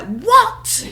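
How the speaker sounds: high, loud laughing disbelief; shocked. Retold or imitated. Hearing she's discharged from the clinic, laughing shock. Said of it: "I was just so shocked".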